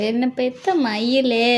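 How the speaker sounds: slow, soft endearment; tender pet name. Pretend. Owner tenderly calls her pet "my peacock".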